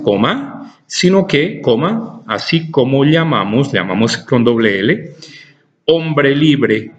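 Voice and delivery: measured dictation reading, punctuation spoken aloud. Acted. Teacher reading a philosophy text to students, dictation. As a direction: read it out for students to write down.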